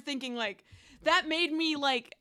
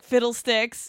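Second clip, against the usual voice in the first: put-on old-timey exclamation; 7 dB louder, slower than usual. Shown as a demonstration. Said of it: "trying to do old-timey things".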